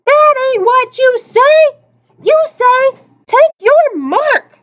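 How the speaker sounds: high, loud heckling yell; yelled from crowd. A narrator's reading. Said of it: "someone in the crowd yelled".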